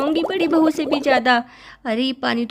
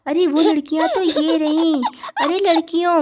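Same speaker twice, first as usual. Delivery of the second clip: laughing call. Acted. Younger wife spotting the girls, calling with a laugh. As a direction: greet them with a pleased laugh.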